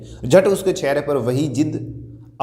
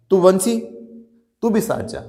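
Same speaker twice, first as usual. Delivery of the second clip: raised-pitch summons, mildly projected; calling out; 4 semitones higher than usual. Acted. Father summons the house servant Bansi to go along, calling out. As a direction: call the servant over, lightly acted. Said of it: "मैंने पुकारा".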